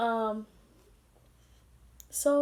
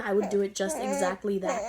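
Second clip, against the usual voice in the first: real tears catching in the voice; teary voice. Real, not acted. Mother telling viewers about her son, voice breaking with tears. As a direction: let the words crack as emotion wells up. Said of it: "it makes me teary-eyed".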